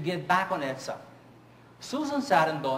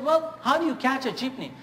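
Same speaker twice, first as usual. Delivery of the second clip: imitating the guest; 9 semitones higher, 5 dB louder than usual. Guest asks how to ride jeepneys.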